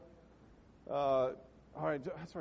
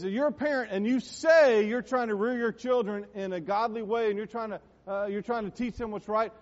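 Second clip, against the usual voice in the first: raised, insistent preacher voice; dad's preaching; 5 semitones higher, 6 dB louder than usual. Retold or imitated. Retelling dad's sermon on rearing children, raised preaching. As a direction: imitate dad preaching to parents, pitched up. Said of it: "That's how he said it".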